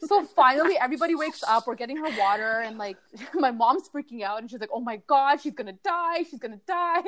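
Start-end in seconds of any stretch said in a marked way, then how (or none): 4.7-7.0 mock panicky mom, a touch higher; dramatic mom. Daughter imitating her dramatic mom panicking, hammed-up. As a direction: ham up the mom's panic. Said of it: "my mom's really dramatic".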